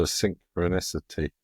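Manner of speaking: careful, syllable-by-syllable "synchronicity"; said very slowly. Real, not acted. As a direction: pick carefully through the long word "synchronicity". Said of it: "I had to say it very slowly".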